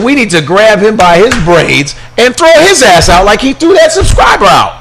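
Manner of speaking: rising to a shout; heated rant. Retold or imitated. Host ranting on air, building to a shout. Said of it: "and I said".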